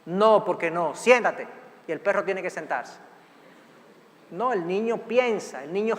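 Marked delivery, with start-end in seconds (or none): 0.0-1.5 dog-style command. Retold or imitated. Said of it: "son como perritos".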